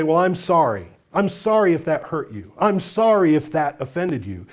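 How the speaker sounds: offhand, dismissive "I'm sorry"; glib apology. Retold or imitated. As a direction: toss off the apology without meaning it. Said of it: "heard somebody glibly say".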